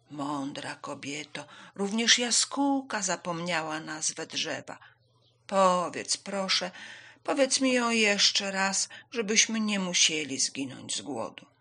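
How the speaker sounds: plodding, drawn-out plea; unhurried tortoise voice; slow, patient tortoise. Acted. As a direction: beg politely, word by word. Tortoise asks wise woman.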